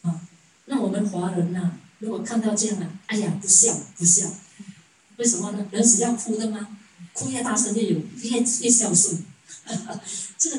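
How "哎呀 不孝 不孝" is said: loud, disapproving cry of 不孝; a shocked onlooker tut-tutting loudly; mock scolding. Chinese onlookers condemning the family. (大声责备的模仿)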